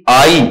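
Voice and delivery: आई sliding from आ into ई; gliding diphthong. Shown as a demonstration. Teacher showing students how a diphthong slips, gliding vowel. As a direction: glide smoothly through आई. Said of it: "फिसलन आ रही है".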